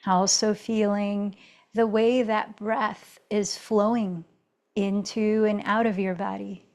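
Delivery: calm, even yoga-teacher guidance with long pauses; settled meditation-leader voice; guided meditation. Real, not acted. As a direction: guide them inward, unhurried, leaving space between phrases. Leads a meditative check-in.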